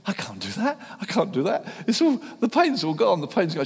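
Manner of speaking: high, loud, excited disbelief; imitating the healed lady's high excited cry; excited woman. Healed lady telling the preacher her pain is gone, high excited cry. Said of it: "and she did, said".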